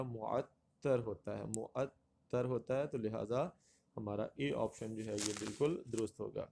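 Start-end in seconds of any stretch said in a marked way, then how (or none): 0.0-2.9 معطر as mu-at-tar; correct pronunciation. Shown as a demonstration. Teacher gives the right answer, careful pronunciation. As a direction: open معطر with mu-, double the t. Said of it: "اس کا جو درست لفظ".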